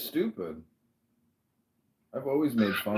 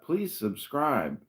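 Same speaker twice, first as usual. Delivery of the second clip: mock video plea; 6 semitones higher, much slower than usual. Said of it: "I'm gonna just do that".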